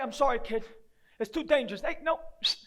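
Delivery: ordinary talk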